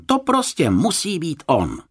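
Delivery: high-pitched excited insistence; exclaiming. A narrator's reading. Boy sure they have found him, exclaiming. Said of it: "vykřikl Jonatán".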